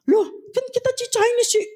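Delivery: high-pitched mimicked objection; startled protest. Preacher acts out a believer's reply about being Chinese, protesting. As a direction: imitate someone protesting in a high voice.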